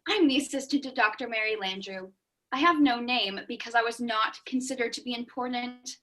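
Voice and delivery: a low murmuring sidekick, barely there; hushed assistant. Acted. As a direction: speak like an overlooked assistant in the shadows. Assistant speaks in hushed role.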